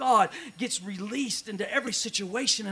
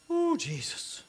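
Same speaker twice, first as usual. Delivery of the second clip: much higher, far-off cry; high exclamation; 9 semitones higher, 3 dB quieter, much slower than usual. Acted. Pastor crying out to Jesus mid-sermon, high.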